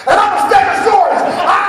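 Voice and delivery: high, loud playful Stegosaurus cry; dad playing along with his son; playful dad dinosaur. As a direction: join the game like a big kid. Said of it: "I'm like".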